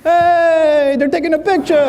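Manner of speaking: high, loud gleeful shout; imitated overjoyed father; happy dad. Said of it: "he's happy".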